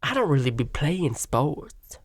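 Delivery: put-on Southern woman accent; Dylan Mulvaney. Host resuming a guest's reply, Southern woman accent. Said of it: "a Southern woman accent".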